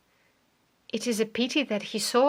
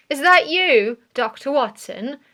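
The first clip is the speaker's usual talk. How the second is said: calling out; 3 semitones higher, 7 dB louder than usual. A narrator's reading. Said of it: "called Stapleton".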